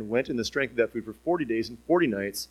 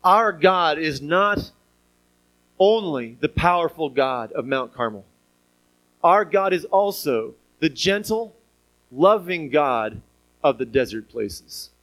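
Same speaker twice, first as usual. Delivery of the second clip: slow, weighted declaration; slow deliberate sermon emphasis; emphatic preaching; slower than usual. Real, not acted. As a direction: land each word of the point.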